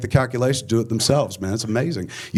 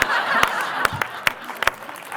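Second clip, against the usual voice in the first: laugh; 3 dB quieter than usual. Real, not acted. Laughs after Oscar punchline.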